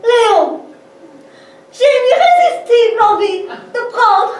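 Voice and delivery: languid seductive invitation; sultry voice. Acted. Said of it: "Tu prends ta voix langoureuse".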